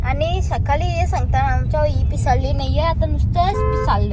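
loud, emphatic teasing; loud, teasing complaint to the vlog camera. Real, not acted. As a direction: call her out loudly.

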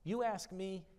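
as if it were a silly question; incredulous echo. Acted. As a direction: flip the question back in mild disbelief. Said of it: "he flips it to him".

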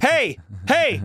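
high, sharp mock command; impatient call. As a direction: call it as if yanking a leash. Hurrying grandparent like a dog.

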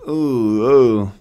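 dazed groan. Acted. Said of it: "a little dazed".

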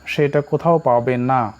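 কোথাও leaned on firmly, falling at the end; কোথাও given the weight of the line; stress on কোথাও. Shown as a demonstration. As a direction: press hard on কোথাও, then let the sentence fall. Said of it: "জোর দিয়েছে, কোথাও নয়".

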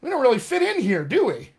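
brain talking. Acted. Brain to itself on arriving among other accents, musing and uneasy. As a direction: voice the brain noticing it doesn't fit in. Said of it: "your brain goes".

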